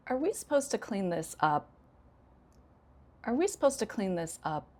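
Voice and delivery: falling intonation, "up" dropping at the end; sarcastic, complaining. Shown as a demonstration. Teacher testing learners the other way, sarcastic complaint. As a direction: grumble it as a question that wants no answer. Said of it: "Second time I used falling intonation".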